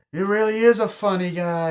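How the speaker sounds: high, loud sing-song imitation; high mimicked taunt. Film fan mimicking "funny guy" line, high mock taunt. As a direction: pitch it way up, mimicking the character. Acting out a movie character's taunt.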